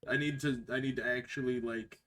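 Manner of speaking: metallic voice filter, like inside a tin can; tinny, boxed-in mic sound. Real, not acted. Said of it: "Why do you sound like you're in a tin can?".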